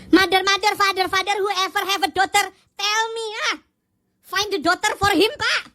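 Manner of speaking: lightly sung-out broken English; half-singing a silly translation; mock translation. A hint of a singer's plea for a daughter. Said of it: "Sama dia ditranslatein".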